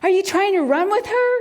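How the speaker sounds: put-on playful high-pitched question to a small child; man calling to child. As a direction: voice a dad teasing his little one. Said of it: "I hear this man say".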